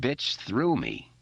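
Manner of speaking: slow, sleepy grumble; lightly voiced groggy Richie; tired mutter. A narrator's reading. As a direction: drag the words out half awake. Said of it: "muttered in that same tired".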